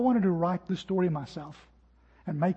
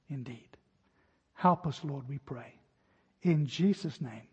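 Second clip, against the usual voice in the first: prayer; 2 semitones lower than usual. Acted. Pastor leads closing prayer.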